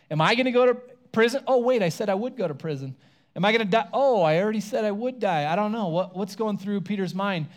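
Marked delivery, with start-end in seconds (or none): 0.1-5.5 panicky worry. Retold or imitated. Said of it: "Maybe he's wondering".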